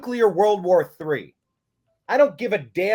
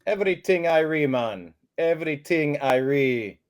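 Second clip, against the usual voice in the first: mock Jamaican accent; 2 semitones lower than usual. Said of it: "even a Jamaican accent might be".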